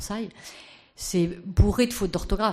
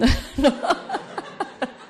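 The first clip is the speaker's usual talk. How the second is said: laugh; 8 semitones higher, 3 dB louder than usual. Real, not acted. Laughing at own impression.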